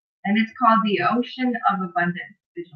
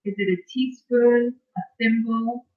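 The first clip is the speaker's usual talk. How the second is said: guided visualization reading. Acted. Host reads a bedtime visualization to live viewers, measured guided-meditation delivery. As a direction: lead listeners through it phrase by phrase, unhurried.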